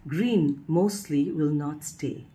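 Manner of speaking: slow, measured reading of a poem title; poem recitation. Acted. Poet reading another poet's title to her audience, recited. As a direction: announce the title slowly, giving each word room.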